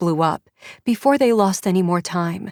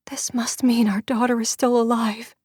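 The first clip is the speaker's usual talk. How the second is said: unvoiced hushed whisper; 4 semitones higher than usual. A narrator's reading. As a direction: whisper it with hope. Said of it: "Diana whispered".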